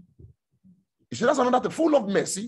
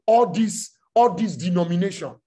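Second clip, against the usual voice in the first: mock dismissive quote; 2 semitones lower, 4 dB louder than usual. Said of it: "when you hear people say".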